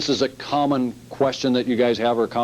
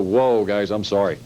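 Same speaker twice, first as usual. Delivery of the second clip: backing-off apology; 4 semitones lower than usual. Shown as a demonstration. Salesman calming startled customers, gently apologetic. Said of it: "back up immediately with body language and, uh, tone".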